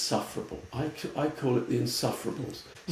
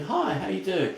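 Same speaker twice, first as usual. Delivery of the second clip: lightly raised, informal hello; casual greeting; 5 semitones higher than usual. Retold or imitated. Luxury store staff greeting a customer, casual. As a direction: imitate relaxed, friendly shop staff. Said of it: "They're much more casual".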